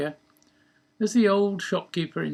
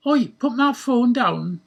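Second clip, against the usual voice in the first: loud, high, slow holler; indignant raised shout; angry holler; 8 semitones higher, 8 dB louder than usual. A narrator's reading. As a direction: holler across the room to stop someone. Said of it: "hollered at Gresham".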